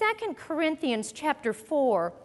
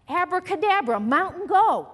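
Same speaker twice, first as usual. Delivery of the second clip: louder, hammed-up incantation; mock magic command; 3 semitones higher, 6 dB louder than usual. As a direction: cast it like a stage magician, half joking. Mock magic spell at mountain.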